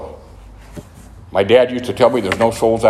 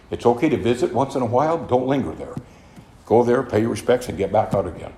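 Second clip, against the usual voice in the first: gentle advice; 4 dB quieter than usual. Retold or imitated. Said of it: "but a very quiet lady".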